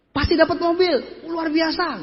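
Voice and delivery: high-pitched confident promise; imitated sales pitch. Speaker promising prospects a car, imitated high-pitched hype. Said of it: "dulu saya ngomong kayak begini".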